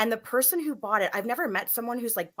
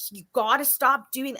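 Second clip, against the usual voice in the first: mild retold telling-off, pitched up; firm, higher-pitched reprimand; scolding; 5 semitones higher, 4 dB louder than usual. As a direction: scold a child firmly, leaning on stop. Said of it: "I'm, like, scolding him".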